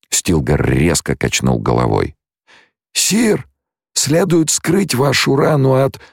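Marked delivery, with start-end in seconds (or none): 2.9-6.0 very high-pitched pleading; urgent follower. A narrator's reading. Stilgar urging Paul to hide the wound, pleading. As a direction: urge it high, cut off mid-sentence.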